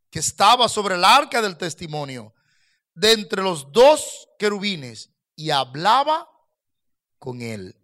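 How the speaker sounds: scripture reading. Acted. Pastor reads the verse to the congregation, solemn. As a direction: read the Bible passage with weight.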